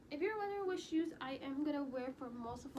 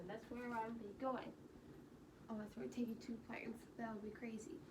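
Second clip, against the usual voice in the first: quiet voice; 9 dB quieter than usual. Real, not acted. Speaks quietly for a stretch.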